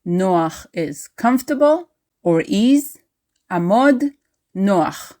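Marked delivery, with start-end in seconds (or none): 3.5-5.1 army command. Shown as a demonstration. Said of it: "the command".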